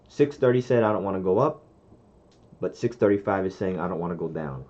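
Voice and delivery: slight lisp, wearing a retainer. Real, not acted. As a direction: talk around a retainer with a lisp. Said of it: "If I sound like I have a lisp, it's 'cause I have my retainer in".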